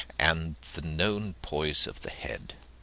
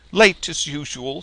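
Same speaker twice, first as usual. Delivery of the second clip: much higher, much louder mother voice; mother chiding her late son at breakfast, high and loud; mother's teasing voice; 10 semitones higher, 11 dB louder than usual. Acted. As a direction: tease him for being late again.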